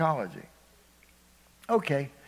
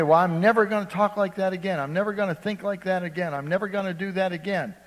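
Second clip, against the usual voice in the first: quick, higher voice, eager promises; rash vow; 5 semitones higher, 3 dB louder, faster than usual. Retold or imitated. Preacher voicing a believer's vows, fast and high. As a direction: rush the vows, sure of yourself. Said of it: "You say".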